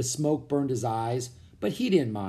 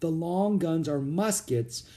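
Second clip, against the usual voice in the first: realization; 5 semitones higher, slower than usual. A narrator's reading. Jack realizing muskets.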